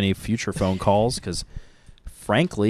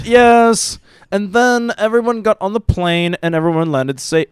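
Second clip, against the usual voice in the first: much higher, louder robotic news read; robotic newsreader; 12 semitones higher, 7 dB louder than usual. Retold or imitated. Host mocks co-host's robotic reading voice, high and loud. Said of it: "your tone starts getting really robotic".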